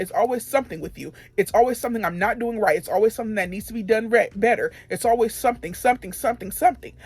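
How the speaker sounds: fed-up retold tirade, building on each repeat. Employee retelling her outburst at constant criticism, exasperated. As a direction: re-enact an exasperated complaint, rising in pitch. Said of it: "I started raising my voice".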